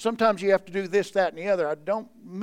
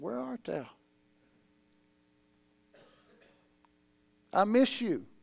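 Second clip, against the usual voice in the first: tender, soft, gentle, worried calling out; 3 semitones higher, 6 dB quieter than usual. Retelling God's words to the listeners, the speaker acts out God's concerned voice. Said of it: "Do you hear the concern in his voice? It's not an angry voice".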